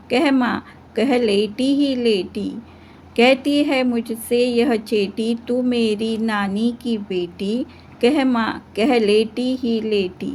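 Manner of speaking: measured, lilting poem reading for a class; poem recitation. Acted. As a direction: recite each couplet in a steady chanting rhythm. Teacher recites the poem aloud. (लयबद्ध कविता पाठ)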